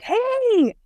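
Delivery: long, high imitated holler; retold yell. Granddaughter imitates grandmother wanting help, high mock yell.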